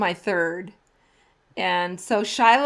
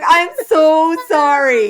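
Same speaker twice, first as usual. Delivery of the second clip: flustered apology; 6 semitones higher, 9 dB louder, slower than usual. Retold or imitated. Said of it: "I'm like".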